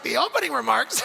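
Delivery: high, incredulous question breaking into laughter; laughing disbelief. Retold or imitated. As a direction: ask it in mock disbelief, laughing. Mock disbelief at the praise.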